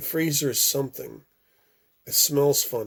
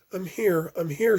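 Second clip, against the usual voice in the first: crying out; 6 semitones higher than usual. Acted. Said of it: "she cries".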